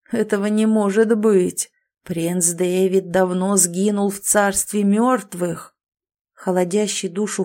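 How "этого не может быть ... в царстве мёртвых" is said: slow, doubtful hollow ghost; disbelieving ghost. Acted. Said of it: "недоверчиво произнёс".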